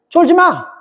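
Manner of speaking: lightly imitated North Korean speech; North Korean phrasing. Shown as a demonstration. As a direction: put on a North Korean comrade's urging. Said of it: "이게 북한 말이에요".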